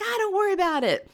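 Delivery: high, fast brush-off; breezy dismissal. Retold or imitated. Guys in front shrug off the screaming, breezy dismissal. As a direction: imitate someone totally unbothered. Other canoeists brush her off.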